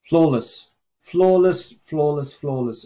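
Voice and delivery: rising to a peak then fading away; excited praise. Real, not acted. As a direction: repeat it, swelling then dying down. Repeated praise, building then fading.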